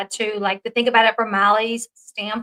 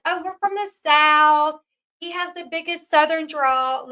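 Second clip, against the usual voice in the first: mocking Lindsay; 5 semitones higher, 4 dB louder than usual. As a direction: parody her smug excuse. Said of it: "Lindsay's response was basically like".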